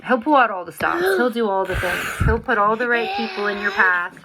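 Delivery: emotional testimony, near tears; voice breaking. Real, not acted. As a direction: choke up praising God. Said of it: "speaker moved by God's work".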